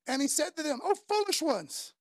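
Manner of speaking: mock-stern rebuke from scripture; reading Jesus' rebuke. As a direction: stretch out the Oh as a lament. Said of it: "Whoa, dude, I don't know you that well".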